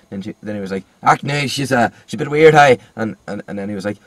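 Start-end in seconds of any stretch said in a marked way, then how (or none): 1.0-2.8 imitated Northern Irish, louder at the end; hammed-up Northern Irish student; mock Northern Irish accent. Mocking the student's drifting accent, Northern Irish. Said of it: "I thought he was Northern Irish".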